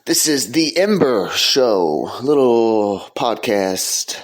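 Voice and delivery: lightly announced show opening; podcast intro. Acted. Host welcoming listeners live from Altamont Springs, podcast intro. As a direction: welcome listeners in, stretching out the show's name.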